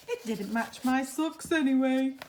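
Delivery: a hint of a breezy giant; lightly voiced giant. Giant dismisses his tie.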